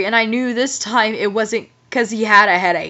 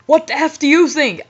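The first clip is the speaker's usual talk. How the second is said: angry; 4 semitones higher than usual. Acted. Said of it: "I asked angrily".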